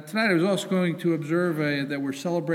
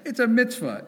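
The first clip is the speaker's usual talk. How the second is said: playful guilt-tripping, pitched up; mock guilt trip; 6 semitones higher, 4 dB louder than usual. Temple president teasing congregation into attending meeting, mock guilt. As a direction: lay a light guilt trip on them. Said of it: "that was an attempt at guilt".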